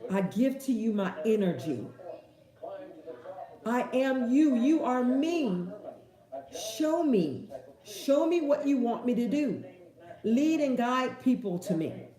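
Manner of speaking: sincere self-talk, unhurried; affirmation. Shown as a demonstration. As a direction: speak it like a prayer. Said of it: "This is how I talk".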